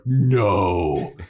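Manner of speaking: long, firm troll refusal. Retold or imitated. Troll turning down other food, drawn-out troll voice. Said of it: "the troll is like".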